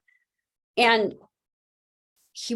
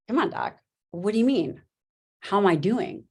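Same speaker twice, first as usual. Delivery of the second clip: mildly baffled imitation, pitched up; bewildered; 3 semitones higher than usual. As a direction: imitate a puzzled patient throwing the question back. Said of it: "he looks at me completely bewildered".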